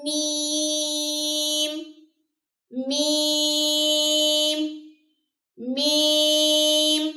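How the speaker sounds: میم held very long and slow; drawn-out میم. Shown as a demonstration. Teacher demonstrating the letter slowly. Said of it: "یا اور میم".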